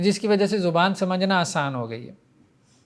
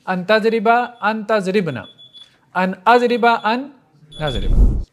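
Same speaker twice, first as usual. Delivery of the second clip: raised, emphatic classroom recitation; conjugation drill recitation; 3 semitones higher, 4 dB louder, slower than usual. Shown as a demonstration. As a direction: drill the verb forms firmly in even rhythmic groups. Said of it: "گردان کریں گے".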